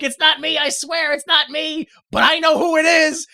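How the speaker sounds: imitating a desperate denial; mock pleading. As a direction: plead like a cornered man, playfully. Acts out accused man pleading.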